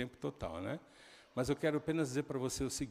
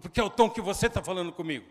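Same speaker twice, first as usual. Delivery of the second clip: acted angry shout; 4 semitones higher, 8 dB louder, faster than usual. Father retold arguing with son.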